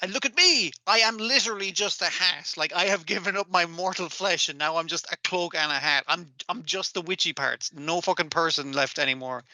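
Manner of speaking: a hint of a gloating witch; evil witch voice. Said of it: "doing an evil witch voice".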